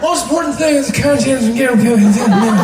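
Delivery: loud mumbling president; hammed-up slurred presidential mumble; Joe Biden. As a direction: run the words together in a mumble. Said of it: "does that weird mumbling thing".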